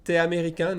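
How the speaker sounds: "T'es" said as a single syllable "te"; casual spoken contraction; fast contracted. Shown as a demonstration. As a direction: drop the U, say it quickly. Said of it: "So I would say".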